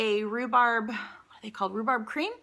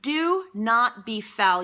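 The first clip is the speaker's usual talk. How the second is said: slow, louder mock telling-off; mock scolding; 5 dB louder, much slower than usual. Telling viewers not to dunk biscuits, mock scolding. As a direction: scold emphatically, drawing the words out.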